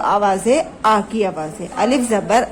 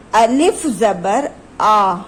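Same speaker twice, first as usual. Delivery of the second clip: slow drill; much slower than usual. Shown as a demonstration. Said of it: "پڑھیے میرے ساتھ".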